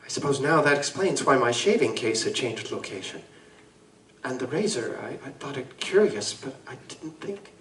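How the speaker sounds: trembling voice. Acted. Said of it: "with a trembling voice he added".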